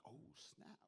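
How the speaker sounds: whispered "oh, snap"; hushed amazed aside; breathy whisper of surprise. Retold or imitated. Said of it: "I'm like".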